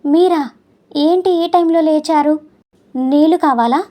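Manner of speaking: startled wife covering up her tears; faltering voice. Acted. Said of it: "తడబడుతున్న గొంతుతో". (తడబడుతున్న గొంతుతో కంగారుగా అడగడం)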